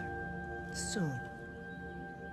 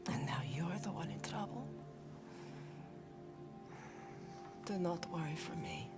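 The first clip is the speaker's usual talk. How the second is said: tender mother; 3 dB quieter than usual. Acted. Dead mother comforts her son.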